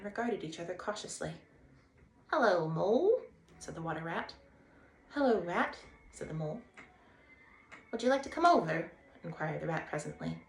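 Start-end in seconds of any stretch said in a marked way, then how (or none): 2.3-3.2 bright, high and loud Water Rat; cheerful Rat calling a greeting; a lively riverbank rat hailing a stranger; Rat's voice. Acted. 5.1-5.8 a touch higher, louder Mole; shy Mole returning the hello; lightly voiced Mole; Mole's voice. Mole greets Rat. 7.9-8.9 bright, high and loud Water Rat; cheerful Rat calling a greeting; a lively riverbank rat hailing a stranger; Rat's voice. Acted. Rat invites Mole.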